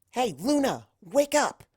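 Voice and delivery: loud, high call through the door; high yell to wake the sleeping princess. Acted. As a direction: shout her awake from the doorway. Calling Luna from the doorway.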